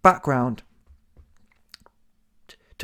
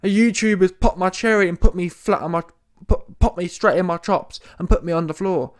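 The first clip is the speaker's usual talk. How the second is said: mock crying; 2 semitones higher than usual. Imitating Tommy Fury after his fight, mock crying. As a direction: imitate a beaten boxer bawling in self-pity. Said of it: "should have been crying".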